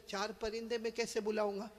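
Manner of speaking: very soft, inward wondering; hushed retold musing; thinking to himself. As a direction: voice a puzzled thought under your breath. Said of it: "سوچنے لگے".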